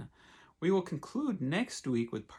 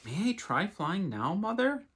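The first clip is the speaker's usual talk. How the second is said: excited; 4 semitones higher, 3 dB louder than usual. Acted. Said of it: "hopping up and down with excitement".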